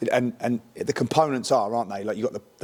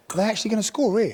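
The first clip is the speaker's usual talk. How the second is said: much higher, incredulous retold question; mock disbelief; 10 semitones higher than usual. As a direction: play a stunned Chelsea player's doubt. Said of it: "was going".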